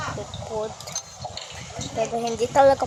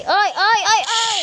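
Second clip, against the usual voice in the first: much higher, loud laughing squeal; laughing shriek; 10 semitones higher, 9 dB louder than usual. Real, not acted. Scared then laughing cries.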